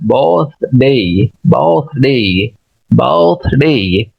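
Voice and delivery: "birthday" slowly, syllable by syllable; careful British pronunciation. Shown as a demonstration. Teacher modelling a word for learners, careful "birthday" pronunciation. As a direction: stretch the second syllable of "birthday" into a clear "ay". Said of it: "तो इस तरीके से birthday".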